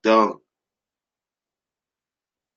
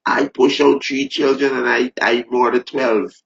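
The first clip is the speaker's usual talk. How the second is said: a higher, slowed mock of a boastful woman; lightly voiced proud mother; 4 semitones higher than usual. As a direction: mimic her bragging lightly. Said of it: "They show me the video with the woman".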